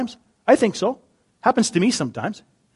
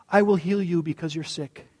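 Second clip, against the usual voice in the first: soft, soothing reassurance; gentle healer; 3 semitones lower, 8 dB quieter than usual. Acted. Jesus offering to heal the sick, gently. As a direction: offer it quietly and kindly. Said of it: "the message just sounded a lot different".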